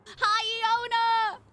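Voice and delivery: very high, loud hi; light up at the name; excited hi. Real, not acted. Greeting a viewer.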